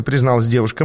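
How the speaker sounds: usual speaking voice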